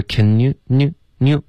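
NEW said with the tongue, lips unrounded; learner's tongue-only glide. Shown as a demonstration. Teacher showing a student their own error, mimicked tongue-only NEW. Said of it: "你现在是".

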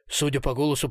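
plain reading voice

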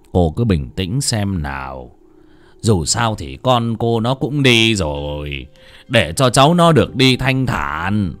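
slow, gentle reassurance; consoling. Acted. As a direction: soothe the grieving mother. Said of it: "lên tiếng an ủi".

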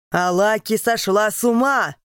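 loud, high enraged yell; the emperor screaming in rage; furious shout. Acted. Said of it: "кричит он".

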